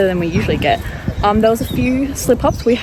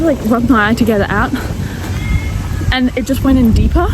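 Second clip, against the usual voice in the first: raised voice over the wind; shouting over wind; 3 semitones higher than usual. Real, not acted. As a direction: talk up over gusty wind. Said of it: "hopefully you can hear me over the wind".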